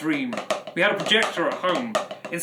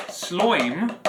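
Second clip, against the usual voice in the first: funny voice. Pretend. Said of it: "I said it in the funny voice".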